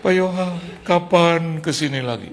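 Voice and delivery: high, weepy pleading imitation; mock tearful. Host pastor hugging departing guest, mock tearful plea. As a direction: plead as if crying, lightly hammed-up. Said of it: "dia nangis lagi".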